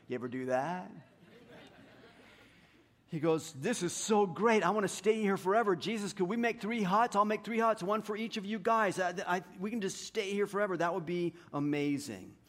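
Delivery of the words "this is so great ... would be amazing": lightly acted eager babble, pitched higher; gushing excitement. Peter babbling to Jesus on the mountain, gushing. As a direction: gush on eagerly as an awed disciple.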